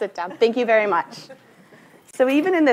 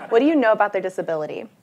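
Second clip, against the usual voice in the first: laughing; 4 dB louder, faster than usual. Real, not acted. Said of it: "you don't have to shout this out".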